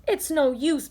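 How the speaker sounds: a touch of tearful giving up; mild despair. Acted. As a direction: sound close to tears. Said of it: "and began to cry".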